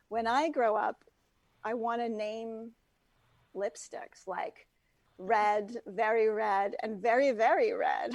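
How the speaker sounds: lightly voiced Valley Girl uptalk; a hint of breezy Valley Girl drawl. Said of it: "so Valley Girl voice, if I could do one".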